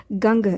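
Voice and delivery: गंग with a half nasal n through the nose; teacher repeating the Sinhala word, nasal ng; nasal ganga. Shown as a demonstration. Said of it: "नाक से हमें एक part आता है गंग".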